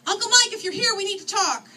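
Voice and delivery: high, loud call through cupped hands; shouted call, rising on Mike; shouting. A narrator's reading. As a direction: call out to someone who may be hiding. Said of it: "cupping my hands and shouting".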